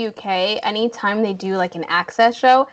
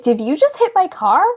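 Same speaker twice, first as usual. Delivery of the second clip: mildly raised, louder accusing question; retold yelling; 3 semitones higher, 5 dB louder than usual. Patient yelling at another driver mid-call, mock indignant. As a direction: imitate a caller's indignant yell, toned down. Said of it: "I hear her yelling".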